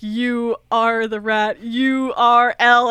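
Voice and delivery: drawn out, U R L spelled slow and loud; said slowly. Retold or imitated. Podcaster imitating Batman cracking the clue, slowly. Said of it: "When you say it slowly".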